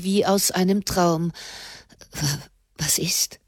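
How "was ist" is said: dazed. A narrator's reading. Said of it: "Er fühlte sich ganz betäubt und verwirrt".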